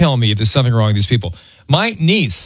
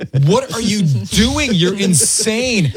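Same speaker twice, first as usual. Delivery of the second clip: slow, higher mock wife voice; 6 semitones higher, much slower than usual. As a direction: drag it out like the teasing wife. Voicing wife mocking in car.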